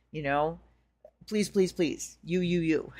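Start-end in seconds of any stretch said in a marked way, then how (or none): 1.3-2.9 half-hearted imitation of her own desperate begging; mock begging. She retells begging the Goddess for help, lightly pleading. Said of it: "like, begging Goddess".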